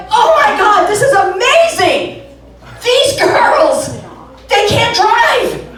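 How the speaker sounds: high, loud hammed-up excitement, slowing at the end; mock excited gush. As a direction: gush like a thrilled fan, then drag out the punchline. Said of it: "I'm like".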